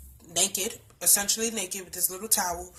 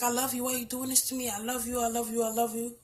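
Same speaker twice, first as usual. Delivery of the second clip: soft pleading; 3 semitones higher, 6 dB quieter than usual. Retold or imitated. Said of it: "Just talk nice to him".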